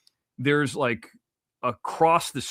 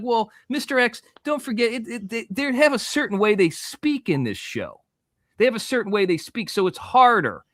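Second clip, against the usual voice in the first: placating crew member; 8 semitones higher than usual. Retold or imitated. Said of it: "And they're like".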